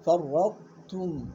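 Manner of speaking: فرطتم stretched slowly with a doubled ر; doubled r, tā given due. Shown as a demonstration. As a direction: drag out فرطتم, leaning on the ر. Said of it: "هاي لا تطلع هاي".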